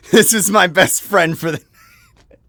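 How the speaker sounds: slow, laughing delight. Real, not acted. Telling viewers about the stranger's weed, laughing. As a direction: giggle through it.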